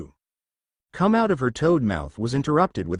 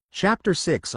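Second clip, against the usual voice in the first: Chapter six announced higher in pitch; chapter heading, higher; 5 semitones higher, slower than usual. Shown as a demonstration. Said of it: "Chapter six Disclaimer".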